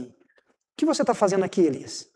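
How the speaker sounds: soft, concerned "O que você tá fazendo aqui, Elias?" asked tenderly; a quietly caring God asking the prophet; gentle caring question. Shown as a demonstration. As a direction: ask it like you truly care how he is. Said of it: "O tom da pergunta".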